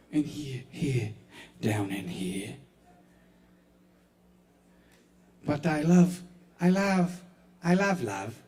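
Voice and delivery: lightly voiced shy bookseller, soft and stammering; nervous bookish man. A touch of a nervous bookstore clerk confessing to the audience. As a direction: fumble the words like a timid clerk. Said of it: "I'll do one more voice".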